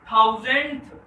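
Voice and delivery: loud "थाउजेंडथ", rising to the th at the end; stressed th ending. Shown as a demonstration. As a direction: punch "थाउजेंडथ" with th added after the d. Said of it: "टीएच लग जाता है". ("थाउजेंडथ" ज़ोर से, अंत में थ जोड़कर)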